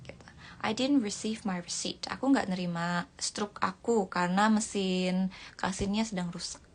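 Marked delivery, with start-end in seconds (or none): 0.6-2.0 I didn't receive my receipt whispered. Shown as a demonstration. Teacher whispering the example sentence to students. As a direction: breathe the sentence out unvoiced. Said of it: "repeats example sentence softly".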